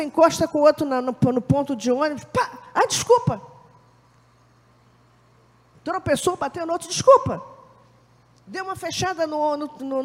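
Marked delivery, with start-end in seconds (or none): 2.7-3.4 quick high automatic sorry; perky reflexive apology. Retold or imitated. Bumping someone, automatic apology. 6.9-7.4 quick high automatic sorry; perky reflexive apology. Retold or imitated. Bumping someone, automatic apology.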